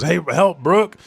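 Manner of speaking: high, loud cry for help; panicked call. Retold or imitated. The king crying to Brooke for help, high and loud.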